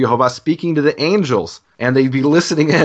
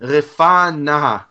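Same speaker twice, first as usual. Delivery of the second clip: higher, slow, drawn-out Hebrew plea; fervent cry; 6 semitones higher, much slower than usual. Shown as a demonstration. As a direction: stretch each syllable like a prayer shouted upward. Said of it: "He shouts out praying".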